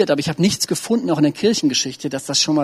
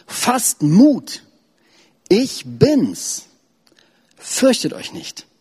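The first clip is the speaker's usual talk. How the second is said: higher, calling out over the storm; urgent reassurance; 7 semitones higher, much slower than usual. Acted. Preacher reads Jesus calling to the disciples, raised and urgent. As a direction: lift it high to reach the boat. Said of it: "Sofort sprach Jesus sie an".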